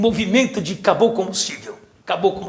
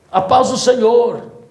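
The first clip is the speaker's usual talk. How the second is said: slow called greeting, louder; yelling across the room; 3 dB louder, slower than usual. Retold or imitated. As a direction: draw it out as if shouting downhill. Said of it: "alguém gritou lá de cima".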